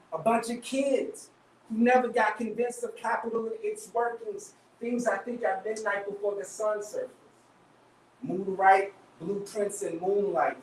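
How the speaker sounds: rhythmic poetry performance, phrase by phrase; spoken word poem. Acted. Poet opening the reading for the audience, spoken word delivery.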